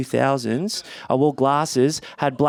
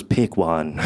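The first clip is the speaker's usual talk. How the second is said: mum quote; 8 semitones lower than usual. Retold or imitated. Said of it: "all she said was".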